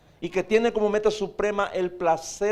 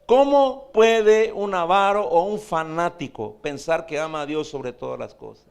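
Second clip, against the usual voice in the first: emphatic preaching; 5 dB louder than usual. Real, not acted. Preacher's rhetorical challenge.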